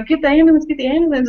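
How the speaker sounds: hammed-up shouted call; mock urgent call. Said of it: "they're like".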